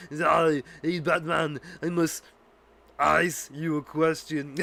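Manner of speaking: slow hammed-up villain pun; Mister Freeze impression. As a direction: lean into the ice pun like a cartoon villain. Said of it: "he's like".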